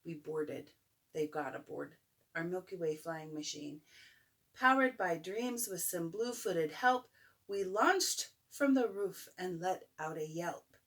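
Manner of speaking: gentle storybook reading; bedtime story. A narrator's reading. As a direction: read it like a bedtime book. Reads picture book aloud.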